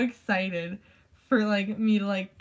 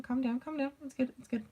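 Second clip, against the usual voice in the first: softer, slightly higher calming voice; retold soothing; 4 semitones higher, 5 dB quieter than usual. Classmates settling Abby down, softly imitated soothing. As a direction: gently talk someone down, lightly acted.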